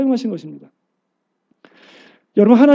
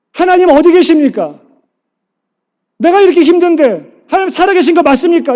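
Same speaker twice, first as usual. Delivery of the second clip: anguished cry to God; 10 semitones higher, 7 dB louder than usual. Pretend. Voicing a believer's lament to God.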